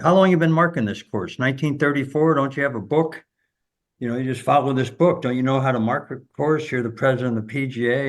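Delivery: ripping into the official; imitating a golfer berating the rules official; angry tirade. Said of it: "he lights him up".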